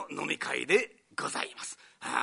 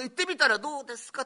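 suggestion voice; 6 semitones higher, 3 dB louder, faster than usual. Retold or imitated. Phone person suggests.

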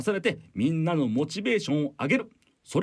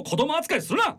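indignant outburst; 11 semitones higher than usual. Acted. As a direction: snap back, offended. Boss protests being babied. (子供扱いされて憤慨して)

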